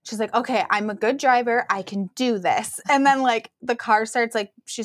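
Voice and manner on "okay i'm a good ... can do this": imitating forced calm, slowing at the end; measured, mock-calm reassurance; calm self-talk. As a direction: retell someone calmly talking themselves through panic. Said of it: "but very calmly".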